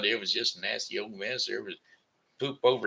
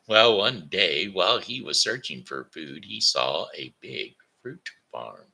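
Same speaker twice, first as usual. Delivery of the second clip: lively bedtime storytelling; story reading; 3 semitones lower than usual. Acted. A grandpa reading a moral story to children. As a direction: tell it like reading to kids.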